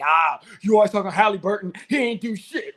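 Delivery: mock jeering at a sports fan; clowning. Friends ribbing the speaker over Halliburton, clowning. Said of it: "I'm thinking they're clowning".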